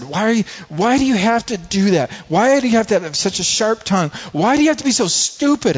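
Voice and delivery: high, strained reenacted shout; angry yelling. Angry father yelling at son.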